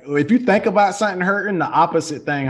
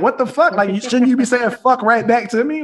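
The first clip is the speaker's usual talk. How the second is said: high exasperated quote; 6 semitones higher, 5 dB louder than usual. Retold or imitated.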